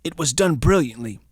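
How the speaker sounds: conspiratorial whisper in a put-on London accent; a hammed-up secretive whisper; mock whisper. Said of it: "Bencher's quote, secretive".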